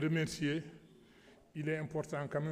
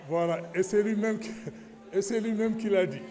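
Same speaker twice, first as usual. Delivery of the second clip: louder and higher, hammering it home; loud insistence; 6 semitones higher, 7 dB louder than usual. Real, not acted. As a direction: insist loudly over the room. Insists the minister said it.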